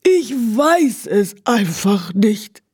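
slow, high, whining lament; whining horse. A narrator's reading. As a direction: drag it out helplessly. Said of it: "jammerte das Pferd".

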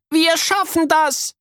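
put-on high slow determined girl. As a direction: push on defiantly. Miri encourages.

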